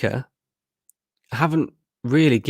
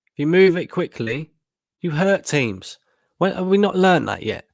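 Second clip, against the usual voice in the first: exasperated rant; 6 semitones higher than usual. Real, not acted. Frustrated fan ranting at team.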